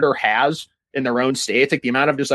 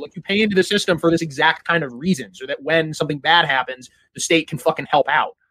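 exasperated retort; 3 semitones higher than usual. Retold or imitated. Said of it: "I'm like".

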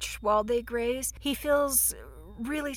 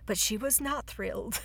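narrator voice; 5 dB quieter than usual. Retold or imitated. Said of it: "the narrator voice coming in and saying".

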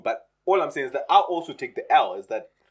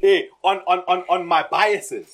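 put-on whiny man child; 3 semitones higher, 4 dB louder than usual. Mocking men who blame the scammer.

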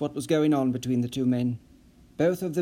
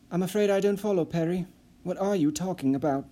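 puzzled Nissen; 4 semitones higher than usual. Acted. Nissen voiced in read story.

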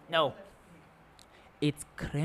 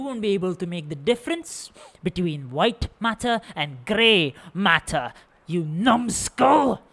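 evil villain threat; 4 dB louder than usual. Acted. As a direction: build from menace to a yell. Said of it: "Continuing with my evil villain speech".

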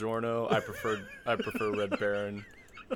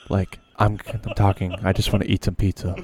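half-joking breathy-close ASMR murmur; hammed-up ASMR demo into the mic; 11 dB louder than usual. Shown as a demonstration. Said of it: "talk in a very calm voice like this".

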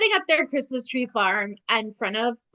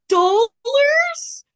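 much higher, louder disbelieving cry; shocked squeak; 7 dB louder than usual. Retold or imitated. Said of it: "And Archie goes".

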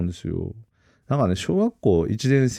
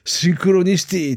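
excited exclaim; 10 semitones higher, 4 dB louder than usual. Retold or imitated. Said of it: "ってなりました".

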